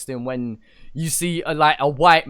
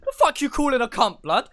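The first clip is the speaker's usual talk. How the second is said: higher-pitched indignant disbelief, breaking into laughter; mock outraged disbelief; 11 semitones higher than usual. London guest retelling his shock at a comment, mock outraged. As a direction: act out baffled outrage at an insult.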